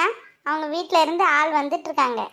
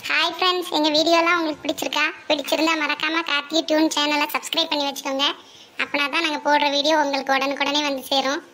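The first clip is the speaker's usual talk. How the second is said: channel outro. Acted.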